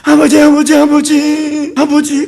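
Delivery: high, repeated mock prayer cry; imitated group prayer. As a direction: imitate worshippers calling out, pitched high. Mimics a group's routine prayer. (높은 소리로 흉내 내는 기도)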